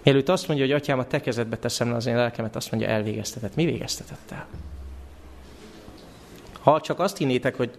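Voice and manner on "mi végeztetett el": whispered question. Acted. Voices Satan's puzzled question.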